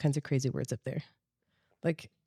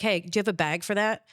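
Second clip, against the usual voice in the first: casual question with a Midwestern "bag"; Midwestern accent. Retold or imitated. Asking for a bag, lightly Midwestern accent. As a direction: let the Midwest slip into "bag". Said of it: "you can hear my accent come out".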